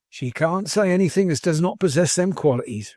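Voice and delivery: a hint of a loyal, homespun manservant; lightly voiced plain-spoken manservant. Manservant praising the Dragon to his master, lightly folksy. Voices Mister Tapley in the story.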